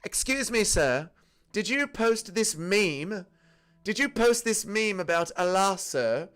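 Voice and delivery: mock police officer questioning a poster. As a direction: question him like a stern cop at the door.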